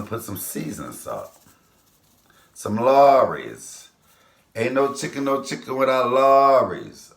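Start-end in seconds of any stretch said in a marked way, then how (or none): 2.5-7.1 louder, higher and slow, like a proud declaration; emphatic. Real, not acted. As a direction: sell it like it's gospel. Proudly names her favourite seasoning.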